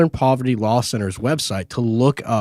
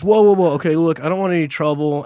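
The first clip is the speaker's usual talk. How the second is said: higher, retold plea to avoid trouble; imitated guy backing off; 5 semitones higher, faster than usual. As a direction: act out a man trying to calm things down. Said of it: "So the guy goes".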